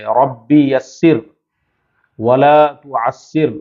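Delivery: slow, measured dua; prayer recitation. Shown as a demonstration. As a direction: recite each phrase slowly and devoutly. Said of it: "ہم دعا پڑھیں گے". (آہستہ، ٹھہر ٹھہر کر دعا پڑھنا)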